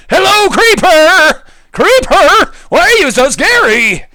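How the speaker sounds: playful cartoon voice; mock sing-song greeting. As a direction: taunt the creeper in a put-on voice. Exaggerated greeting to creeper.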